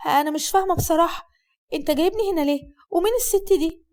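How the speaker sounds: light girlish voicing, puzzled; Hasnaa's voice.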